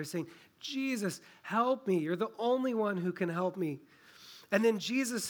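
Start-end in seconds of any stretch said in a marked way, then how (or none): 0.6-3.8 a pleading call of someone in need; mildly acted plea from a blind beggar; desperate cry for help. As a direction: call out to Jesus, begging him for help. Blind Bartimaeus crying out to Jesus.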